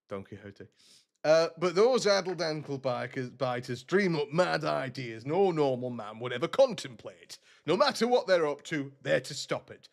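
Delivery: lightly put-on northern English accent voicing a gruff quest giver. Streamer voicing a quest giver, light northern accent. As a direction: read the boss's orders in a northern English accent. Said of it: "I just really enjoy doing a northern accent".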